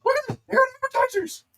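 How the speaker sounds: high, eager call across the hall; eager Kato. Acted. Kato calling the group to the table, eager high call. GM voices Kato over appetizers.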